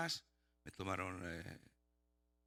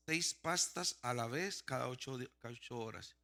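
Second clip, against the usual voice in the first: reading out. Retold or imitated. Patient reading his prescription before taking it, deliberately. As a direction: read the label out deliberately.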